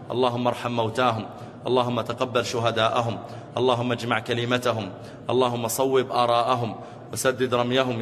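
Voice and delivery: steady, fervent supplication; rhythmic sermon prayer, rising at the end; closing prayer. Real, not acted. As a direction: lead the congregation in prayer.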